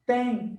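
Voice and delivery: "Tem" with a nasal E gliding into I; pronunciation demo. Shown as a demonstration. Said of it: "ela é pronunciada assim".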